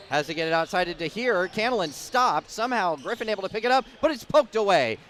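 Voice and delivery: fast, high, building call; excited play-by-play. Real, not acted. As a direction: speed up as the ball comes loose. Loose ball scramble.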